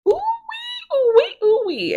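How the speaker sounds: high, loud teasing whoop; excited whoop. Real, not acted. Recapper reacting to the necklace gift, excited whoop.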